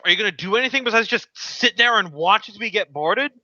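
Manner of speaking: high-pitched drow noblewoman, needling; drow lady. Acted. Drow lady to alchemist as they get boarded, high and reproachful. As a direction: chide an idle underling in a high voice. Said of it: "drow lady on the throne".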